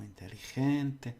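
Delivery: "inteligente" slowly, leaning on "gen"; every syllable sounded. Shown as a demonstration. Teacher repeating for learners, every syllable sounded. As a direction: give each syllable of "inteligente" its time. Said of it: "always do your syllables".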